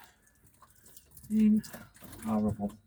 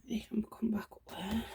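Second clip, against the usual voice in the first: whispering; 4 dB quieter than usual. Real, not acted. Whispered garden tour aside.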